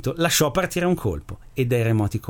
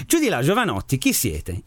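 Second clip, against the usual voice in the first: a mildly raised call up to the roof; booming call. Acted. Priest calls out to the aliens on his roof, mild mock boom. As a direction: hail the strangers from the window, half-voiced. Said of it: "gridò con la sua voce rimbombante".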